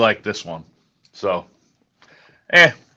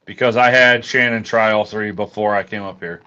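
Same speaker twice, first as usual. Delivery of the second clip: talking around ice in mouth; words round a mouthful of ice; 2 semitones lower than usual. Real, not acted. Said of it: "I got ice in my mouth".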